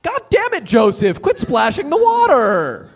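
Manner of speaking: furious yell at little brother; angry shout. Acted. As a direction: snap and shout in anger. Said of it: "I didn't mean to get angry".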